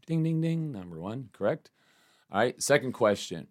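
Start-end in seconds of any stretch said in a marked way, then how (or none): 0.1-0.7 quiz bell. Pretend. Quiz host rings correct answer.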